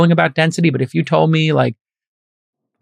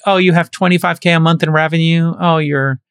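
condescending. Retold or imitated. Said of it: "the people who were like".

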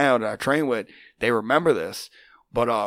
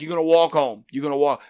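mock angry threat; 4 semitones higher, 5 dB louder than usual. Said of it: "Oh, I was hot".

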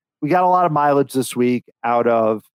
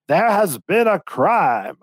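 slow, drawn-out mock announcement, a bit higher; imitating the guy's announcement; 4 semitones higher, much slower than usual. Game host announcing the crime to contestants, slow mock imitation. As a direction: ham it up like a robotic host, very slow. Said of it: "that guy's accent was".

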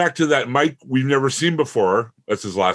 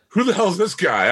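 baffled; 9 semitones higher than usual. Retold or imitated. Viewer baffled by new character.

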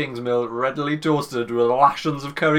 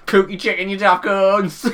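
mock parting insult; 6 semitones higher, 5 dB louder than usual. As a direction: throw the insult high and loud, playfully.

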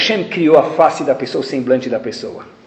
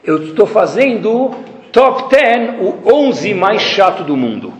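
sarcastic complaint; 6 semitones higher, 4 dB louder, much slower than usual. Retold or imitated. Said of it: "o que eu tô demonstrando pra minha filha".

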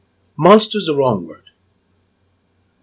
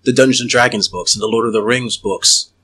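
hypnotic voice. Acted. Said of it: "I'm gonna hypnotic voice again".

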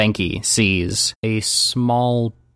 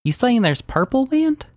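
high shocked disbelief; incredulous; 3 semitones higher than usual. Acted. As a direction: sound baffled and shocked. Daisy incredulous.

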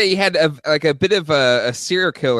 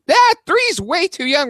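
high, slow shocked protest; alarmed parent; 4 dB louder, slower than usual. Retold or imitated. Parent shocked by the baby center update, high slow protest. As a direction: act scandalized.

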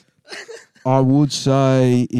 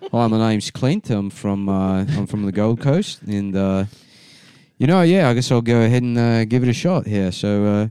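put-on Australian talent-show contestant; Australian accent. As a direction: introduce yourself in an easygoing Australian accent. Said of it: "He just goes into accent mode".

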